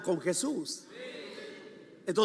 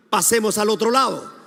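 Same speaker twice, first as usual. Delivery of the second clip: louder, firm call to repeat; emphatic declaration; 5 dB louder than usual. Shown as a demonstration. Preacher has hands raised to repeat Jesus' words, emphatic declaration. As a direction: lead the congregation in declaring it. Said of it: "Levanta tu mano, diga".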